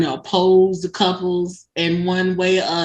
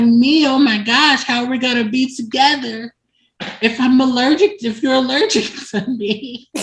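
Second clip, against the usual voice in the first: lightly acted higher-pitched dismay; dismayed admirer; 5 semitones higher than usual. Tabitha asking how they can be together, dismayed. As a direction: wail mildly, half amused.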